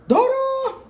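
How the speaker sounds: loud, high call across the house. Real, not acted. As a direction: shout the name to someone far off. Calling out to someone.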